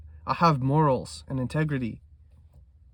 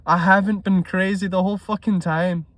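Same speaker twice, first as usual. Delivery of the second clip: lifted and louder, vindicated burst after a laugh; imagined triumphant relief; 4 semitones higher, 4 dB louder than usual. Retold or imitated. Trader imagining finally being profitable, triumphant burst. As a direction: crow it like you were proven right all along. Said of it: "it'll feel so good to be like".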